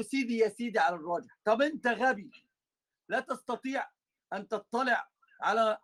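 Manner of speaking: a touch of mockery; lightly mock the pompous phrasing. Teacher imitates a man sneering at the preferred opinion, mildly mocking. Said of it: "لما بيتكلم باستهزاء".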